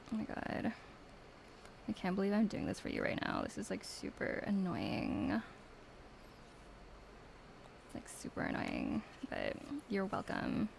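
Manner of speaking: lightly put-on bratty annoyed Valley Girl; a hint of eye-rolling Valley Girl; mean Valley Girl. Mean Valley Girl accent complaining to the viewer. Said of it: "a mean Tara reading in a Valley Girl accent".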